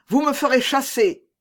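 high-pitched protest; indignant cry. A narrator's reading. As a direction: call it out in reproach. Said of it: "cria d'Artagnan".

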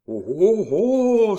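loud cry swooping up high; exclaiming. A narrator's reading. Miton reacting beyond the hedge, exclaiming. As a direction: let out a big rising exclamation. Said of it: "s'écria Miton".

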